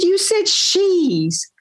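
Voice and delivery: slow hushed whisper. Retold or imitated. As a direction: breathe it out slowly under your breath.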